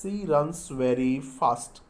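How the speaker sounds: stretched out very slowly; very slow, clear dictation. Shown as a demonstration. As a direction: dictate the phrase slowly for writing. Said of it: "she दोबारा लिख लेते हैं".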